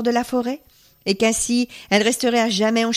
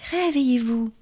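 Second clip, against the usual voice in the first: "puissant seigneur" dit en implorant, voix de jeune fille; suppliant, posé, insistant; voix suppliante; 4 semitones higher than usual. Acted. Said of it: "qui les appelait d'un ton suppliant". (la tzigane implore le seigneur, voix suppliante)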